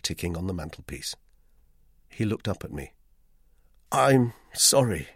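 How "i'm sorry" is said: stammering. Acted. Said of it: "I stammered".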